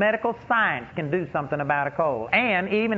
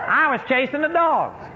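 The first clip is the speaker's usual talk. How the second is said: laughing; 5 semitones higher than usual. Real, not acted. Laughing at own dog-chasing story.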